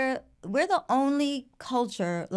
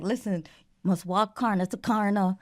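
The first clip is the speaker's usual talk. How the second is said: put-on Guyanese accent. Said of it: "He was like".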